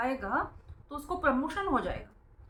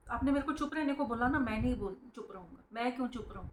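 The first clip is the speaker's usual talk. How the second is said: put-on rebellious child; 4 dB quieter, faster than usual. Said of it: "वो rebel बन जाएगा".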